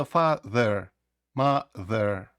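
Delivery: "father, mother" split in two, schwa in the second syllable; шва. Shown as a demonstration. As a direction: slowly separate "father, mother", ending on a neutral uh. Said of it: "вона не справжня вимова тої літери". («father, mother» по складах зі шва)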